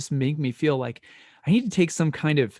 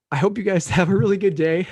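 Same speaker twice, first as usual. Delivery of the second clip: laughing through tears; 5 semitones higher than usual. Real, not acted.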